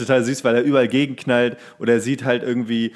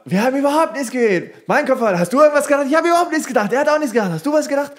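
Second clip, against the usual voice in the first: much higher and louder, frantic squeaky denial; panicked movie quote; 14 semitones higher, 5 dB louder, faster than usual. Retold or imitated. Podcaster reenacts the frantic scene in a high squeaky voice. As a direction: squeal it out like a scared ghostbuster.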